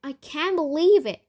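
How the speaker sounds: loud, astonished outburst; yelling in disbelief. A narrator's reading. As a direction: exclaim at an unbelievable sight. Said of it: "Grandpa Joe was yelling".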